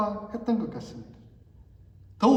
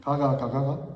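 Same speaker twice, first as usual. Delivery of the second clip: Gyeongsang dialect demo; 4 semitones lower than usual. Shown as a demonstration. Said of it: "무슨 말이에요?".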